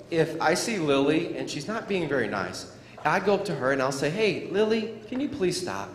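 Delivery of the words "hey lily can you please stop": nicely. Shown as a demonstration. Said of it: "I asked her to please stop in a nice way".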